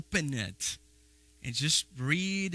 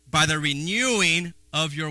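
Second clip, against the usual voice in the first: slow, louder lead-in left hanging; call and response; 5 dB louder than usual. Shown as a demonstration. Preacher prompting the church to finish the verse, drawn out. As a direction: hold it open for the crowd to finish. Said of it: "Help me out".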